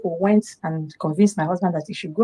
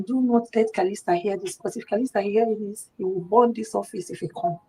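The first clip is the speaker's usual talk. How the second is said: softer, confidential voice; hushed warning; 7 dB quieter than usual. Retold or imitated. Husband warning his staff to keep it from Kalista, hushed.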